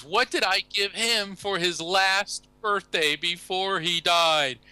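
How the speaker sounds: put-on high, slow fluttery old lady voice; little old lady. Widow asks medium about her late husband, high old lady voice.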